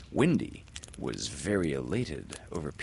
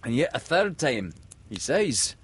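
high pirate remark; noting the captain's gloom; Smee; 7 semitones higher than usual. Acted.

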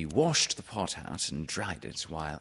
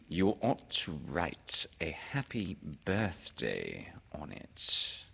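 Owl; 4 dB quieter, slower than usual. Acted. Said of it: "said Owl".

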